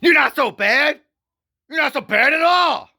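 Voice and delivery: very high, loud sugary voice; sweet falsetto. Retold or imitated. Speaker flattering Carol in a high falsetto. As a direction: coo it with mock kindness. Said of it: "I would say to her".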